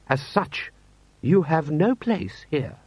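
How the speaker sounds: pause, then draw out the verdict; haughty dismissal. Acted. Lord Rust sends the commander out, haughtily.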